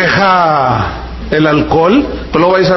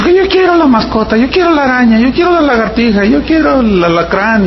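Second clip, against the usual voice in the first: put-on higher pleading kid voice, each "yo quiero" pushed up; whiny child; 4 semitones higher than usual. Pastor voicing a small child begging for a pet, pleading. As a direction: beg like a little kid asking for pets.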